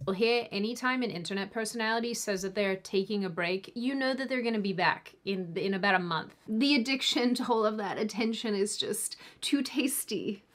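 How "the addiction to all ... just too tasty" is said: hissed, creepy whisper. Pretend. Host mocking an attention addict, creepy whisper. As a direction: breathe it out like a creep savoring it. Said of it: "That was gross".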